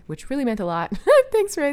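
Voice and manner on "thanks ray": laughing. Real, not acted. Laughing thanks.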